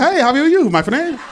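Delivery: put-on slipping into a Hispanic accent; copied Hispanic accent. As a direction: mimic the seller's Hispanic accent. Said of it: "You end up talking like them".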